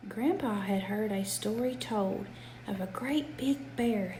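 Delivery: gentle sing-song bedtime reading; reading to a child. A narrator's reading. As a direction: read it like a rhyming bedtime book. Reads a rhyming picture book aloud.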